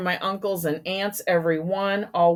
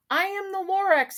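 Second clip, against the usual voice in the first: Lorax voice; 10 semitones higher than usual. Acted. Lorax voice in read story.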